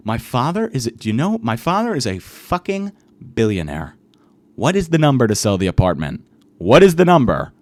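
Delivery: rising from firm to loud demanding; building billionaire rant. Retold or imitated. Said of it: "haggling with him and pretending to be a billionaire".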